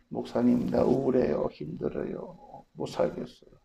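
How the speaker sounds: soft, breathy, whispered lament; weary complaint. Pretend. A hurting believer telling the pastor, faint whisper. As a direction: sound worn out, barely able to speak.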